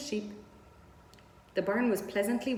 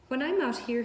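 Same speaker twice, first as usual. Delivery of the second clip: put-on young pig; 5 semitones higher, 4 dB louder than usual. Wilbur voiced, complaining.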